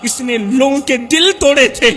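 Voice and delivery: pleading wail, mildly acted; preacher acting a tearful plea; mock-tearful outcry. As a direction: cry out to God as an anguished accuser. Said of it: "رو کر کہے گا".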